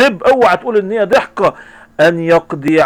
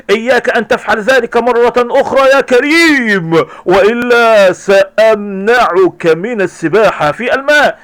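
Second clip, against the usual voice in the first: stern warning; 4 semitones higher, 4 dB louder, slower than usual. Acted. Father warns son.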